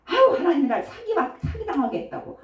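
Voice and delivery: high-pitched imitation of a grumbler; mock complaint. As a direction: imitate someone moaning to God, half laughing. Mocks people blaming God for fraud. (높은 목소리로 푸념을 흉내내듯)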